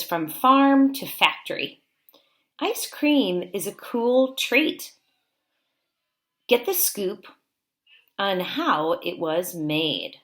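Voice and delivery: slow, clear read-aloud of a book title; reading to children. Acted. Teacher reads title aloud.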